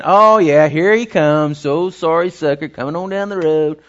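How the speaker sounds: a lightly voiced shrug, careless and offhand; mildly mock bored bystander; preacher mocking a father who doesn't care, offhand; mock indifference. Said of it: "a compassion like saying".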